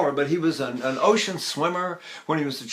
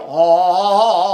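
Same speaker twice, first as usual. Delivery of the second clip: Jimmy Stewart sound; 8 dB louder than usual. Shown as a demonstration. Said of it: "I sound like Jimmy Stewart".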